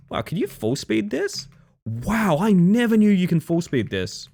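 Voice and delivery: high, amazed wow; genuinely amazed discovery; surprised. Real, not acted. Amazed discovery while playing.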